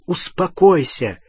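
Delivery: high, drawn-out urgent order; cried out. A narrator's reading. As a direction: call out to calm someone raging. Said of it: "крикнул Гарри".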